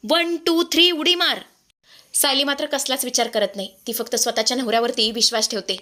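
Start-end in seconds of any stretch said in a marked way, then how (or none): 0.1-1.4 raised, pitched-up call to jump; urgent shouted count. Acted. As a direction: shout the count so she leaps now. Husband counts wife out of car.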